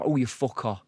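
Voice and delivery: Nottingham key phrase for the accent. Shown as a demonstration. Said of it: "you got to get, to get in".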